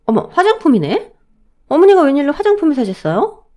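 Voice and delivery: surprised daughter-in-law; pleased surprise. Acted. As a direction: react brightly to an unexpected gift. Daughter-in-law discovers an unexpected gift.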